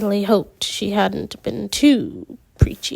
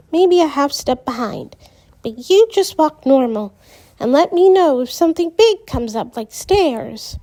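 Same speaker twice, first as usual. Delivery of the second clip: lightly voiced helpful friend, a bit higher; friendly guiding instructions, gently raised; voiced character; 4 semitones higher than usual. Character dialogue read aloud.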